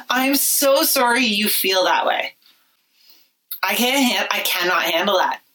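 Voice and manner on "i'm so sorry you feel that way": higher, slower, sarcastic sweetness on so sorry; mock fake apology. Shown as a demonstration. Mocking the hated apology, a slow higher sarcastic sweetness. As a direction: drag it out like a smug non-apology. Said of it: "Are you kidding me?".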